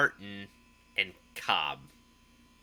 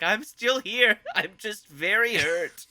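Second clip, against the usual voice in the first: Will Ferrell impression; 7 semitones higher than usual. Cohost quoting the burned henchman scene, mock cheerful pained voice. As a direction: play it as a cheerfully battered guy insisting he's fine. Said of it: "he's like".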